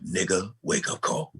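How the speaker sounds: a hint of Paul Mooney's preaching cadence, lightly voiced; Paul Mooney impression. Comic impersonating Paul Mooney for the host, a light Paul Mooney voice. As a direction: preach it the way Paul Mooney would, barely shifted from own voice. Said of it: "when I imitate Paul Mooney".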